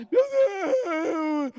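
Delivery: berro agudo e choroso, exagerado; gritaria fingida. Acted. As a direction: gritar arrastado, como num falso desespero. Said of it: "começou a gritar". (grito de lamento caricato)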